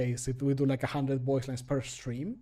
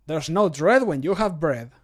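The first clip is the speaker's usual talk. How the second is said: louder, punchy character read; character voice line; 7 dB louder than usual. Acted. Streamer records a cheerful bread line, bold character read. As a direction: sell the bread rhyme boldly. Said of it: "recording voice line takes".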